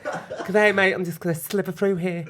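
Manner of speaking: lightly voiced camp snake, chuckling; a hint of a cheery Aussie snake. Pretending to be a passing snake, lightly camp. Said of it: "I've got an impression of a snake".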